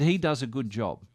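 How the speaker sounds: "He" lifted, falling away after it; stress on He. Retold or imitated. Star praises the pilot, stress on "He". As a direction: put the weight on "He", retold praise.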